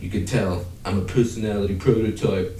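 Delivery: amateur Cockney impression of a robot; Cockney accent. Marvin the android explaining himself, in a dodgy Cockney accent. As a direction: put on a shaky-authentic Cockney. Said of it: "Why is he Cockney?".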